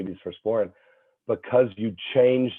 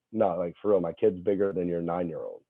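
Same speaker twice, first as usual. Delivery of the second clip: lower, understated deadpan retelling; dead straight; 4 semitones lower, 6 dB quieter than usual. Retold or imitated. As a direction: say it low and straight, as if deadly serious. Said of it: "like, dead straight".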